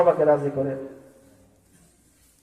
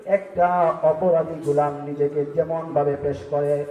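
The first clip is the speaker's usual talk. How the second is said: rhythmic sing-song sermon cadence; melodic preaching. Acted. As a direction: preach in a lilting chant, stretching phrase endings.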